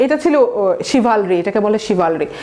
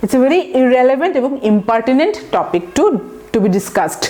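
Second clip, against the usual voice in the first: slow example sentence; much slower than usual. Shown as a demonstration. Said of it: "তাহলে কি হলো".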